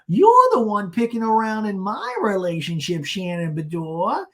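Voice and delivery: high, loud mock confrontation; Gina. Gina confronting Shannon over her relationship, mock indignant. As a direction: drag out the end like an indignant accusation. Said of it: "And then Gina's like".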